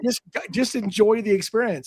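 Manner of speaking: high, exasperated scolding tone.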